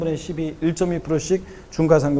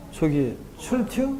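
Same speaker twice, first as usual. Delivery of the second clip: Chungcheong dialect quote; 5 dB quieter, slower than usual. Retold or imitated. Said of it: "충청도 사람들은 간단해요".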